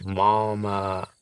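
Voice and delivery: lightly voiced old man, slow and tender; a hint of a doting old husband; old papa, fond. Old husband to his wife, tenderly slow. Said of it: "Papa says".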